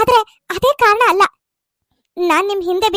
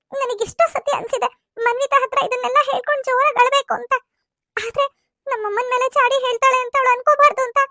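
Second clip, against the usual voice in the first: tearful pleading; 3 dB quieter than usual. Acted. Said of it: "ಪರಿಣಿತ ತುಂಬಾ ಅಳ್ತಾ ಇದ್ದಾಳೆ".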